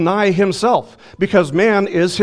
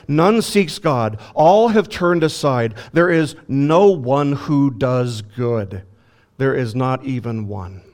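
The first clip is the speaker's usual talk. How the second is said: slow scripture quote. Acted. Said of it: "Scripture ... tells us things like".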